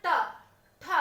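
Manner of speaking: ट and ठ clipped apart with the tongue curled back; retroflex demo. Shown as a demonstration. Teacher shows the tongue flip on ट ठ. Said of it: "ये टवर्ग बोलते समय आप क्या कर रहे हैं".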